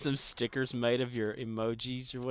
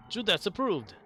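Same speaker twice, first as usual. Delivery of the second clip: laughing; 8 semitones higher, 4 dB louder than usual. Real, not acted. Laughing high delivery.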